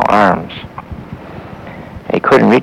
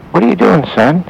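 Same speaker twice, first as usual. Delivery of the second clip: calling down; 10 semitones higher, 4 dB louder than usual. A narrator's reading. Old man calls down to boy.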